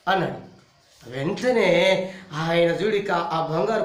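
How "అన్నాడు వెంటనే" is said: ordinary talk, nothing marked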